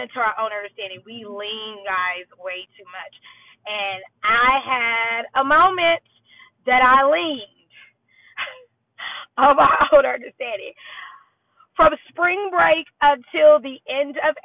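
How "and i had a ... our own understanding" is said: choking up. Real, not acted.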